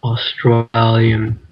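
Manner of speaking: slow attempt at an Aussie accent; Australian accent. Shown as a demonstration. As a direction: try out an Australian accent, stretched out. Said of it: "say it with an Australian accent".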